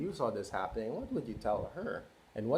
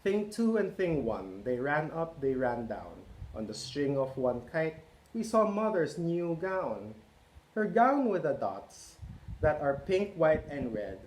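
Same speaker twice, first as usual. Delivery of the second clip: lively picture-book read-aloud; reading to children; 3 semitones higher than usual. A narrator's reading. Parent reading Cat in the Hat to children, lively. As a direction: read it out to a roomful of kids.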